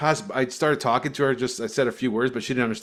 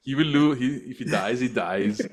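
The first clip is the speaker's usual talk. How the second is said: a light Russian boxer voice; the Rocky villain's cold threat, lightly done; Drago impression. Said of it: "Drago, Drago".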